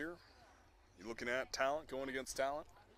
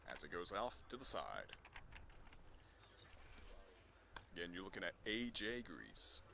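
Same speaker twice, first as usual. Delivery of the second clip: golf commentator; 2 semitones higher, 6 dB quieter than usual. Acted. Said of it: "golf commentator voice".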